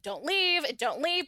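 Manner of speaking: flat robotic pleading. Retold or imitated. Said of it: "he says it very robotically".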